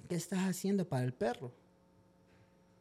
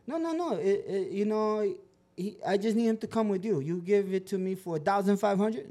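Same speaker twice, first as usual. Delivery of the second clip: imitando al dueño con un inglés roto, más agudo y algo lento; inglés chapurreado; 5 semitones higher, 4 dB louder than usual. Retold or imitated. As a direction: hazle hablar un inglés torpe de extranjero. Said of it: "no hablaba muy bien en inglés". (el dueño del perro pide un favor en inglés chapurreado)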